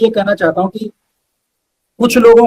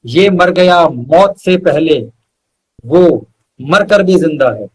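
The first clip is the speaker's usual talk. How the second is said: measured shayari recital with weighty pauses; poetic recitation; slower than usual. Acted. Reciting his couplet to the host, measured and poetic. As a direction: lean into each line like a mushaira couplet. Recites full poem to close.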